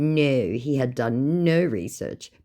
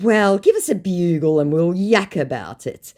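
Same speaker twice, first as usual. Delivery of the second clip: broad Aussie slang; 5 semitones higher, 5 dB louder than usual. Retold or imitated.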